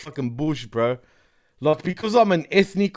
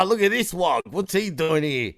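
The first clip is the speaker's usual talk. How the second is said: imitated racist local. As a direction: imitate a hostile local sneering at an outsider. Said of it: "Those motherfuckers be like".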